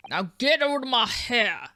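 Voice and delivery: gruff Scottish governor, slow and heavy; a hard Scottish warden putting a visitor in his place; Scottish prison governor. Acted. Prison governor greets the lawyers in a thick Scottish brogue. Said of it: "can't decide on the voice".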